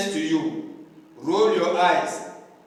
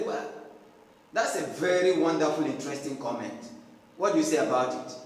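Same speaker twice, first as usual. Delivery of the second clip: sarcastic praise; 3 semitones lower, 5 dB quieter, faster than usual. Pretend. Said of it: "you know that it's a stupid comment".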